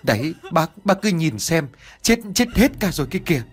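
high, distraught woman's cry; choked sobbing. A narrator's reading. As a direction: point out the loss through sobs, rushing at the end. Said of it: "nấc lên từng tiếng nghẹn ngào".

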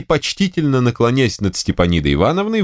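usual speaking voice

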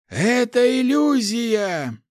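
high, loud, slow alarmed shout; shouted warning. Acted. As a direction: yell the warning to your allies.

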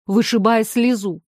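ordinary delivery

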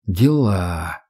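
low muttered "Дела" in the Tatar's manner; mumbled catchphrase. A narrator's reading. Max mumbling the Tatar's pet phrase, low. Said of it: "пробормотал Макс коронную фразу татарина".

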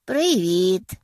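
loud cheerful call of Привіт!. A narrator's reading. Sadie greets the guests at the door with a loud call. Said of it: "гукає вона".

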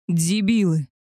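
a roared insult; roaring. Acted. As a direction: bellow it at the guards. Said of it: "От нового рёва Альфы". (рёв, оскорбление охране)

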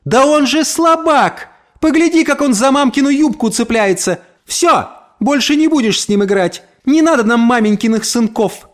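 high-pitched, scornful mockery; pointedly audible jeer. A narrator's reading. Neighbour tells her daughter the boy is weak, pointed jeer. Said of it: "сказала погромче, чтобы я слышал".

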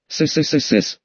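long drawn dragon hiss; hissing reptile growl. Acted. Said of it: "прошипел дракон".

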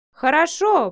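loud high shout. A narrator's reading. Miranda yells after Matvey leaves, loud shout. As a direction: yell it out in fury. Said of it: "прокричала Миранда".

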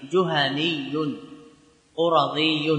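drawn out carefully; slow demonstration. Shown as a demonstration. Teacher repeating the form for students, very slow. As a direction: model the word slowly. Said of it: "تقول".

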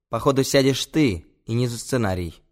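mildly sharp, abrupt retort; brusque put-down; sharp interruption. Acted. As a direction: cut him off curtly. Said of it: "Резко обрываю его я".

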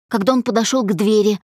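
ordinary delivery

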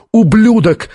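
high-pitched insult, cried out; angry narrated shout. A narrator's reading. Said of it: "закричал Рушер".

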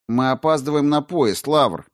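firm, insistent reminder; with conviction. A narrator's reading. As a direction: press the point firmly. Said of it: "с убеждением".

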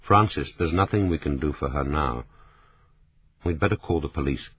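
soft, gentle and quiet; a man gently calming his distraught partner. A narrator's reading. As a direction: let him down gently, softly. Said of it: "James DeWitt said gently".

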